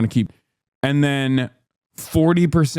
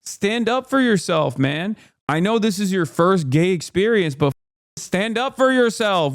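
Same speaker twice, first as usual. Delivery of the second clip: higher-pitched mock rant at a TV character; imitating his outburst at the screen; 4 semitones higher than usual. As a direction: scold him like he can hear you, half joking. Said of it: "I was like".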